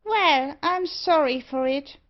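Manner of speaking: ordinary delivery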